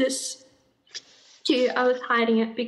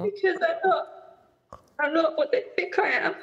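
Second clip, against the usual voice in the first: tearful; 3 semitones higher, faster than usual. Real, not acted. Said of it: "I didn't mean to cry".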